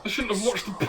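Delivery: eerie whispered voice in her head. Acted. Voices in Lara's head, whispered. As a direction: breathe it like a haunting voice.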